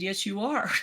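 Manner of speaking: yes, you are through a laugh; playful laughing reply to husband; laughing tease. Retold or imitated. Teasing husband about house.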